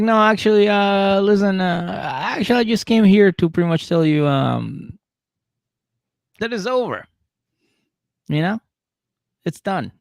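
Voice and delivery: high put-on girlfriend voice; mock girlfriend. Monique telling Derek it's over, high mock voice. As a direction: break up with him in a high mock voice. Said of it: "She's like".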